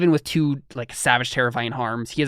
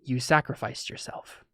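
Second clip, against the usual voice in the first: slow, soft questioning spirit voice; a hazy spiritual presence asks softly; 4 dB quieter than usual. Acted. Almost a question.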